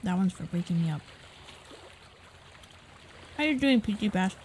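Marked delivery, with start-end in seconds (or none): 3.4-4.4 talking with a mouthful of chicken; words round a bite of fried chicken; eating crunchy fried chicken. Real, not acted. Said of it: "Sorry, I'm eating chicken".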